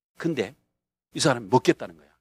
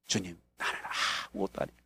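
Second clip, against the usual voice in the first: much softer, lower, humble murmur to the Lord; humble prayer; 9 semitones lower, 13 dB quieter, faster than usual. Retold or imitated. Pastor praying over the man, hushed and lowered. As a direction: pray it low and small, emptied out. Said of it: "이 사람 붙들고 기도한".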